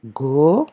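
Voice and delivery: "Go" said alone as a drawn-out syllable; first syllable "Go" cut off from its word; isolated syllable. Shown as a demonstration. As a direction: dictate "Go" by itself, vowel held. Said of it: "première syllabe".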